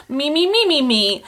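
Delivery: high, rising squeaky puppet chatter; quick run of high-pitched nonsense syllables; Muppet babble. Retold or imitated. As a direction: chirp it like a little puppet creature. Imitates a Muppet language.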